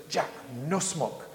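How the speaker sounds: put-on lightly accented Asian restaurant owner, curt; clipped broken-English refusal with an Asian accent. Owner refusing Jack's cigar, light Asian accent. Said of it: "He's Asian".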